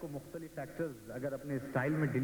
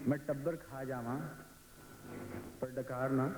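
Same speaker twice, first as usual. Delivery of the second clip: Dilip Kumar style; 3 semitones lower, 5 dB quieter than usual. Retold or imitated. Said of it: "Dilip Kumar साहब कह रहे हैं".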